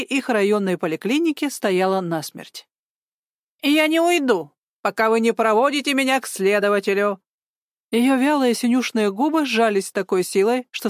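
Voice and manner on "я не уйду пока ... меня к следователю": insistent demand. Acted. Old woman insists on investigator.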